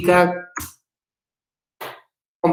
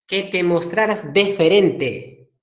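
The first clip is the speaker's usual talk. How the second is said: DEFERENTE said slowly and distinctly; acted correction, slow weight on "deferente"; correcting emphasis; slower than usual. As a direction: spell out "deferente" slowly, syllable by syllable. Father corrects the misheard word.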